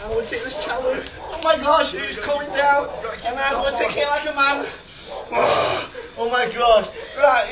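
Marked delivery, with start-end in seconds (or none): 1.3-2.9 startled yelp. Real, not acted. Ice water about to drop. 6.2-7.5 real shout. Real, not acted. Cold water hits him.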